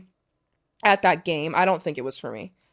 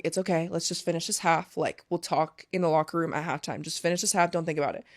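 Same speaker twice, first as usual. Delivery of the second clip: reassuring; 3 semitones lower, 7 dB quieter than usual. Retold or imitated. Friend comforting her in the huddle.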